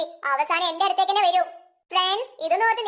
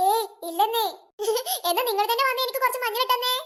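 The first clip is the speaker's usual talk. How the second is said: laughing it off; 3 semitones higher than usual. Acted. Brushes off apology, laughing.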